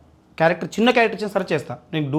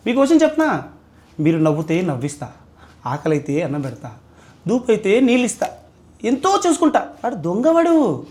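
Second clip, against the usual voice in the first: comic pleading. Pretend. Rejected lover begs the girl comically, squeaky pleading. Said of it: "comedy వేలో చెప్పండి".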